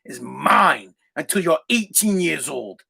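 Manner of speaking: slow, deliberate retold fatherly warning; imitated stern dad. Father to teenage son against the wall, slow stern warning. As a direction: lay down the law slowly, imitating dad. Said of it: "just like this, he looked at me".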